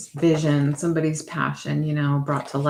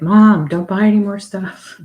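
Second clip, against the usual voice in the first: daughter voice; 5 semitones higher, 11 dB louder than usual. Retold or imitated. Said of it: "would be like".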